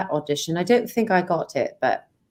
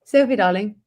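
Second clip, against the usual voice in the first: put-on British accent. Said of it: "you got the British accent down".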